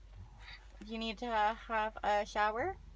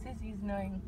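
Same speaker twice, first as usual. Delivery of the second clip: whispering; 4 dB quieter than usual. Real, not acted. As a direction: hush it to a whisper. Baby sister asleep nearby.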